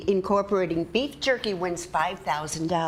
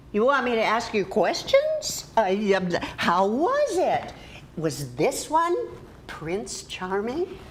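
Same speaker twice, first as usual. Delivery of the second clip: sarcastic mock interest in a friend's date. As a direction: ask with mocking, exaggerated curiosity. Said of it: "I know you're being sarcastic".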